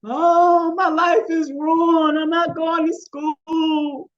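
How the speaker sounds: loud, high, drawn-out mock wail; imitated girl yelling, each word stretched out. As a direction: wail it like a melodramatic teen in despair. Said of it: "the girl in the background yelling".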